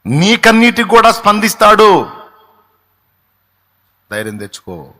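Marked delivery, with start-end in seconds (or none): 0.1-2.1 higher, louder proclaiming; preacher assuring the weeping congregation, loud and high; preaching at full force. Real, not acted. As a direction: lift it up and declare it.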